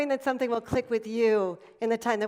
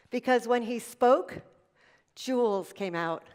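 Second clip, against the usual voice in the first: mother's fond memory; slower than usual. Retold or imitated. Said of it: "And she said, "Joy".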